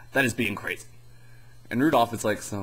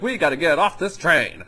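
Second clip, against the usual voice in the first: Frosty voice; 6 semitones higher, 5 dB louder than usual. Retold or imitated. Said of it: "So then Frosty's like".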